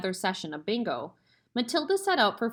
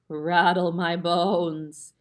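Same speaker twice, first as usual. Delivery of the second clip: very slow, louder spooky parrot; 5 dB louder, much slower than usual. A narrator's reading. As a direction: moan it out eerily, slowly. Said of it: "I guess I could maybe change that up".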